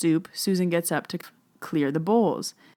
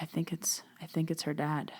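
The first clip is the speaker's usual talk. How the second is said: unvoiced whisper, softer; 8 dB quieter than usual. Telling husband about the spirit, whispered. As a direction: breathe it out secretly. Secretly sensing spirit at table.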